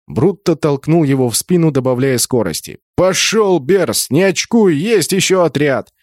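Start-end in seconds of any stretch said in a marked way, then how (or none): 3.0-5.9 raised, brisk battle command; higher, insistent rallying call; urging him on. A narrator's reading. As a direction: push a comrade into action. Leader urging berserker on in battle.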